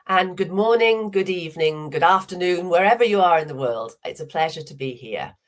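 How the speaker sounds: hoarse from a cold; croaky, under the weather. Real, not acted. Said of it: "apologise for my croaky voice".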